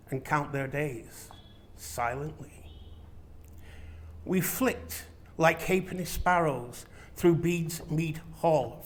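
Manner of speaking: measured, unhurried poetry recital with lingering line breaks; poem reading. Acted. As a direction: read it aloud like a poem, letting each line hang. Recites his poem to audience.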